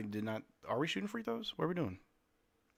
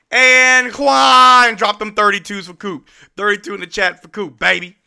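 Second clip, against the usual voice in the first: louder and higher, slowed down, savoring it; still-hyped cheering; 6 semitones higher, 14 dB louder than usual. Real, not acted. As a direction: ride the leftover hype. Still hyped after the play.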